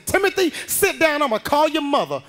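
scolding teacher voice; stern teacher. Retold or imitated.

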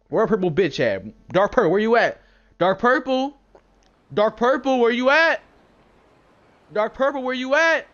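loud repeated calls, hunting for him; calling out. Real, not acted. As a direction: shout across the room for Dark Purple.

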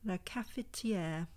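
a self-mocking, slow stab at French; terrible French accent. Shown as a demonstration. Vlogger reading a brand name in a bad French accent. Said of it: "with my terrible French accent".

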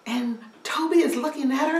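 ordinary delivery

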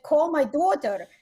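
slow Russian imitation slipping toward Boston; botched Russian accent. Dad giving Alexa a command, Russian accent gone Boston. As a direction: attempt Russian, land nearer Boston. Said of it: "I don't know why that sounded from Boston".

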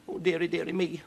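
high-pitched woeful moan; wailing. Acted. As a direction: wail it in dismay. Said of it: "wailed Huddle".

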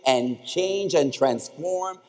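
rally the graduates; rousing call. Real, not acted.

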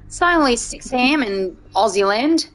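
put-on Aussie accent; Australian accent. Streamer playing Aussie to a co-player about bedtime, Australian accent. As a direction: lay on an amateur Aussie twang. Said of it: "I really like doing an Australian accent".

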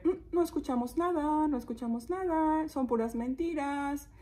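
slightly high, lightly acted indifference; dismissive villagers. Villagers ignoring the shepherd, mildly dismissive. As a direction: brush off the boy's cries. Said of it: "la gente así como que".

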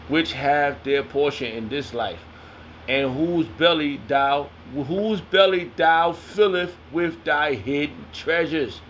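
slow, deliberate scripture recitation; scripture reading. Acted. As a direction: draw out every word of the verse. Reads scripture aloud.

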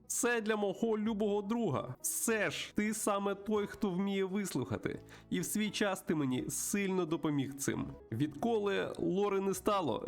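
put-on high, lively voice greeting an old pal; chatty old friend. Plays the friend character in dialogue.

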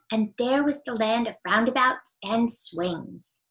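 lively storybook narration with bright character lines; story reading. A narrator's reading. Reader reading a chapter book to children, animated. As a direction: read it like a bedtime story to kids.

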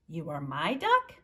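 rising, surprised question; can't quite believe it. Acted. Realizing the duck is his, rising surprised question.

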